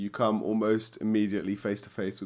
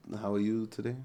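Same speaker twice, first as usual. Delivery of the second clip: bad put-on German accent. Voicing the professor in a German accent: garbage Christoph Waltz impression. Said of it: "it was a really garbage Christoph Waltz".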